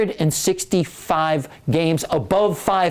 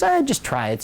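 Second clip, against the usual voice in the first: higher breezy wife voice; wife's brushing off; 8 semitones higher than usual. Retold or imitated. Wife brushes off her husband's worry in a higher voice. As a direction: wave off his worry, pitched up.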